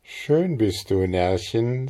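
langsam, schelmisch mahnend; leicht neckende Drohung; neckend drohend. Acted. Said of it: "erhob drohend ihren Finger". (Trude neckt das Mädchen langsam und schelmisch drohend)

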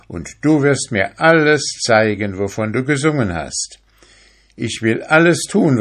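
eager fisherman. Acted. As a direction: promise her everything in one rush. Fisherman promises the mermaid.

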